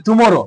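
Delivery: টুমরো with weight on the middle মরো; stress on মরো. Shown as a demonstration. Teacher showing pupils the capitalised middle, stress on মরো in টুমরো. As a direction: press the part after টু in টুমরো. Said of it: "এই যে মোরো ক্ষেত্রে".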